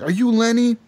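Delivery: put-on slurred drunken question; drunk slurring. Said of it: "you're all slurring your words".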